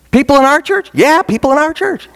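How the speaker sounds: astonished churchgoers. Acted. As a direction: act out amazed congregation members swapping news. Acting out astonished church members' gossip.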